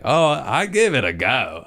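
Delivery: bad Australian accent, high and loud; hammed-up Australian imitation; Jim Jeffries. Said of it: "I can't do accents".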